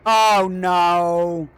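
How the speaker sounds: panicked no. Real, not acted. Character about to fall.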